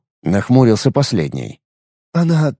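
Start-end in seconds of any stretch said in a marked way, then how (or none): 2.1-2.5 slow, halting, frightened delivery; slow, trembling words with a break between. A narrator's reading. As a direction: falter as if afraid to say it. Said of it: "произнёс скрипач дрожащим голосом".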